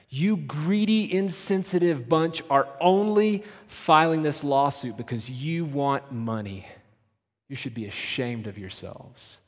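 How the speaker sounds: attack them like a hostile accuser; accusing tone, cooling at the end; harsh accusation. Shown as a demonstration. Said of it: "You're ready to fight".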